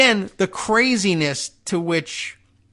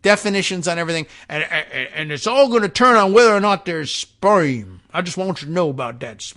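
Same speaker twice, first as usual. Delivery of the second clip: mock Southern accent. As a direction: put on a Southern accent to lampoon a moralizing lawmaker. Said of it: "I'm giving them Southern accents".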